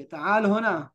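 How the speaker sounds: "ताल होना" with a long aa; model pronunciation. Shown as a demonstration. Teacher showing how it will be said, model pronunciation. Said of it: "ऐसे ही बोलेंगे".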